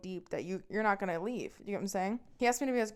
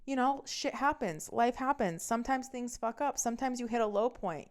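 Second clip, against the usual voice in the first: a touch of understanding, higher-pitched; mock understanding; 4 semitones higher than usual. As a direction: lightly act out excusing someone, pitch raised. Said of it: "I'm being understanding without realizing".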